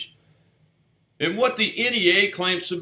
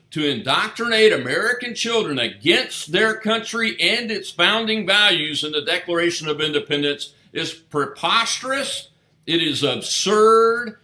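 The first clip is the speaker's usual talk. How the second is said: rally speech; 3 dB louder than usual. Acted. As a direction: rouse the crowd, punch each line. Fiery rally speech to parents.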